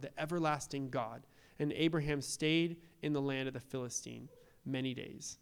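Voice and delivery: measured, formal Bible reading; scripture reading. Acted. Pastor reading Genesis to the congregation, formal. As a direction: read the passage steadily to the church.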